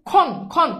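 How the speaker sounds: খন said alone as "khon", twice with a pause; separated syllable. Shown as a demonstration. Teacher joining syllables for students, খন set apart. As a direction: give খন as its own beat, twice. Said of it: "যোগ".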